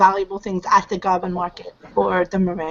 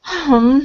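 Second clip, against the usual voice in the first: sighing hmm; 3 semitones higher, 4 dB louder than usual. Acted. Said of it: "you hear the lady sigh in your head and go".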